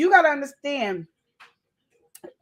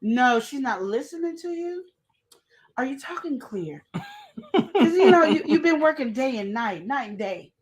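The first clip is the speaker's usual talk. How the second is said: sly coworker. Acted. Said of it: "go back to work stressed".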